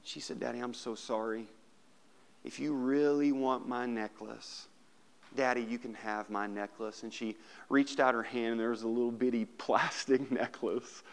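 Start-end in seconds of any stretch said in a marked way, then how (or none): 0.4-7.0 tearful apology. Acted. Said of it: "with big old tears in her eyes".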